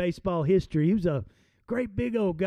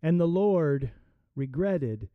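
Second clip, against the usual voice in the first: scripture reading. Acted. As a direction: read the verses to the congregation. Reads scripture aloud.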